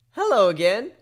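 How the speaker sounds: high, loud cheerful hello; excited high greeting. Acted. Filly greeting her griffin friend, high and excited. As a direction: greet him brightly like a happy filly.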